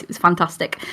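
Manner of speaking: a light northern English accent, Lancashire and Yorkshire mixed. Shown as a demonstration. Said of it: "it sounded like this".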